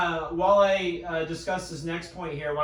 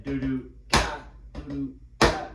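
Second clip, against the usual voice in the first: vocalized drum rhythm. Shown as a demonstration. Teacher vocalizes the drum stroke rhythm.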